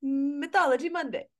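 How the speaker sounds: tentative attempt at a British accent; amateur British accent. Shown as a demonstration. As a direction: have a go at British, unsure. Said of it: "in a British accent".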